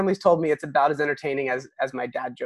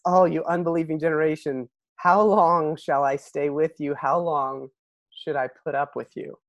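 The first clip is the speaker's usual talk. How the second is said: frustrated. Retold or imitated. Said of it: "hear the frustration in Jesus' voice".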